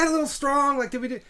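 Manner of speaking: actor checking himself. Retold or imitated. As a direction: ask it like an actor unsure of his take. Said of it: "And then they're like".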